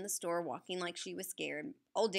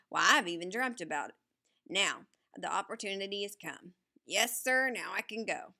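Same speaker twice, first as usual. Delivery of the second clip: excited, almost shouting; 4 dB louder than usual. Acted. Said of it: "and almost shouted".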